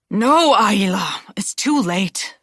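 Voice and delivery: slow urgent whisper; slow pleading whisper to the girl; hushed whisper. Acted. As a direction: hush her gently but firmly, slowly. Guardian hushing the arguing girl.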